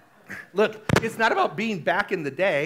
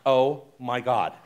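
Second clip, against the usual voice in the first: slow, laughing mock dread; a hammed-up panicked groan; mock terror; 5 semitones lower, 4 dB louder, slower than usual. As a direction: gasp it out like you're clinging on.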